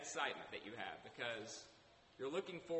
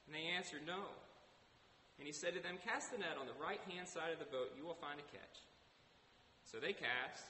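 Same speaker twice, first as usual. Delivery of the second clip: scripture reading. A narrator's reading. Reads scripture aloud to congregation.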